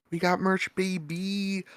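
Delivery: high excited sales pitch; hype promo. Real, not acted. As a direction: sell the merch, pumped.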